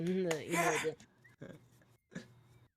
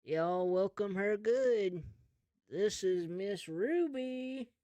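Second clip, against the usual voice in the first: lightly put-on emcee, raised pitch; stage announcer; 3 semitones higher than usual. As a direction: draw out the introduction for the crowd. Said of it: "talking into the blowhorn".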